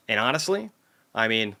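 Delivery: ordinary talk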